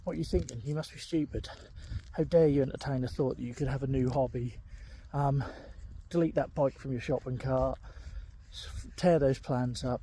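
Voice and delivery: a mild mock telling-off from his own brain; self-sabotaging inner voice berating his hobby plans; mocking inner critic. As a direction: sneer at yourself for daring to hope. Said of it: "your brain then tells you".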